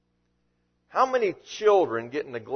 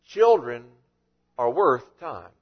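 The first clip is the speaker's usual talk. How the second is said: put-on lower, slow, with a pause after Children; gentle correction; 4 semitones lower than usual. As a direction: correct them gently and firmly. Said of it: "And Jesus said, You're missing the point".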